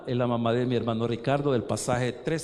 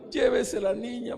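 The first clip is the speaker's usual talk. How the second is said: imitating tearful plea; 8 semitones higher than usual. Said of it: "se pone a llorar".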